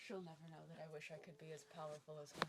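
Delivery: mock quote. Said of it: "Either that or she's like".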